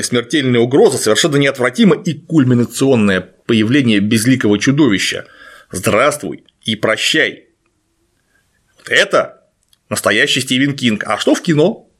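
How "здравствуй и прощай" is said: low, slow gurgling monster repeat; slowly gurgle it low and menacing. Retold or imitated. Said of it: "булькающий голос".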